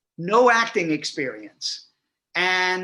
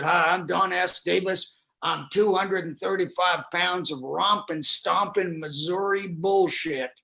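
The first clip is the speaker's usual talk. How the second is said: Don S. Davis. Retold or imitated. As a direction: play a hearty Southern introduction, lightly drawled. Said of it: "and he said".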